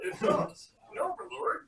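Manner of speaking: high, breathy little frog voice; Kermit voice. Pretend. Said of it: "Jimmy, you can do it, Kermit".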